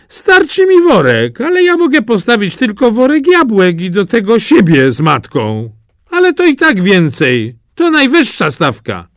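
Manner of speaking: high, eager voice of a peasant; proud peasant. Acted. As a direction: bet everything, keenly. Peasant boasts his wager.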